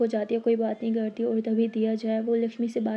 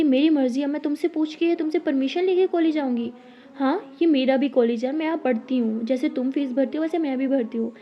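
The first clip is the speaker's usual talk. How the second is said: defensive retort; 2 semitones higher, 3 dB louder than usual. Acted. Girl defends her right to attend college, indignant. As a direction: push back hard.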